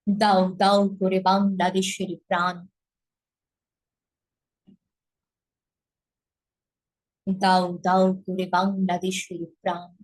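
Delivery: slow, measured poetry recital with long pauses; poem recitation. Shown as a demonstration. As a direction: recite the poem line by line, unhurried.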